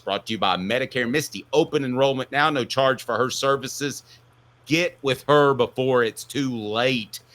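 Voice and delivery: upbeat sponsor read. Acted. Host reads the Medicare sponsor spot, upbeat ad voice. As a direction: sell it like a radio spot.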